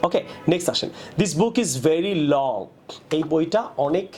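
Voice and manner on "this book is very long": slow demo of wrong sentence. Shown as a demonstration. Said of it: "এভাবে না বলে".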